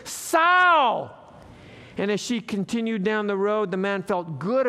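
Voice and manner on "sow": high, loud acted yell; quick mock shout; yelled back fast. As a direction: fire the insult back at her. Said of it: "the man yelled back as quickly as he could".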